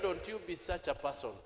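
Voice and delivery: 压低声音的劝告; 轻声劝朋友; quiet aside. Acted. Quoted advice to a friend.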